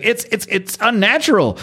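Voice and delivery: high-pitched, hammed-up Southern voice; Southern accent. Medical examiner reacting to the creature, hammed-up Southern accent. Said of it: "near the South".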